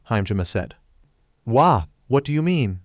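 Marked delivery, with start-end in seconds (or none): 1.4-2.8 panicky, pitched-up question; frantic. Acted. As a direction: ask it in a panic. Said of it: "Zenitsu asked frantically".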